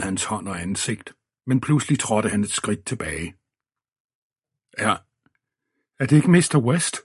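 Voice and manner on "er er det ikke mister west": high, strained, startled question; a policeman's shrill surprise, higher and louder; shrill rising voice. A narrator's reading. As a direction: voice jumps up shrill in alarm. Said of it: "Hans stemme skingrede lidt".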